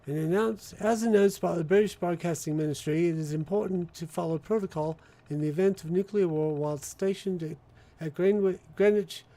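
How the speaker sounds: put-on British accent with Australian A's; mock-official British public notice; British announcement. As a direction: read the bulletin as a British broadcaster. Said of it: "My A's are all Australian, while my, the rest of it's British".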